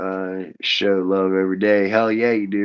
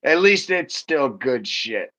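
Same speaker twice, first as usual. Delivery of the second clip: laughing; 4 semitones higher, slower than usual. Real, not acted. Repeats friend's joke while laughing.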